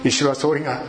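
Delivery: calm, even prayer voice; a pastor praying aloud over the church; spoken prayer. Acted. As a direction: pray for the congregation, steady and humble. Leads the closing prayer.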